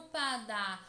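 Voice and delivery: LÂMPADA with a very long held LÂM; drawn-out syllable. Shown as a demonstration. Teacher repeats the example for pupils, drawing out LÂM in LÂMPADA. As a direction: stretch the first syllable of LÂMPADA, then let PADA fall. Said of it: "demora a ser pronunciada é lã".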